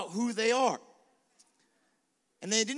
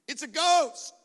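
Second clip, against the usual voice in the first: mock panic; 6 semitones higher, 6 dB louder than usual. Disciples panic seeing ghost on boat.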